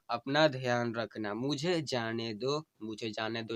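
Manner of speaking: slow, tender recital of a dying wife's plea; dying wife's farewell. Acted. Wife bidding her husband farewell, tender and pleading.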